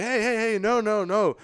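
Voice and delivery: high-pitched, insistent hype-man intro; imitated over-eager stage announcer. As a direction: cut in and hype up the crowd. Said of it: "this other guy comes up and is like".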